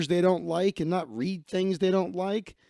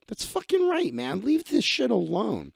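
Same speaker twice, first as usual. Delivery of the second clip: excited approval; 4 semitones higher than usual. Real, not acted. Cheering the mom's defiance.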